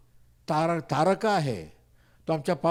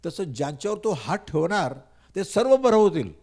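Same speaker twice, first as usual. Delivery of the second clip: voice of God; 4 semitones higher than usual. Retold or imitated. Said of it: "पण देव म्हणतो".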